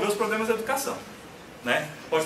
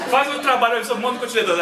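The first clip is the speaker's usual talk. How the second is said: laughing through the assignment; chuckling while repeating it; 3 dB louder than usual. Retold or imitated. (rindo ao repetir a tarefa)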